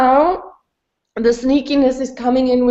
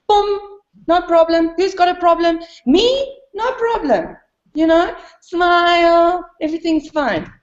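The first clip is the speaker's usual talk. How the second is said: mock carefree cheer; 5 semitones higher than usual. Mocks her own easy calm.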